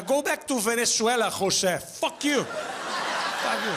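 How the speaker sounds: mock angry local yelling at an immigrant; mock xenophobe. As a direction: pretend bigot telling someone to leave.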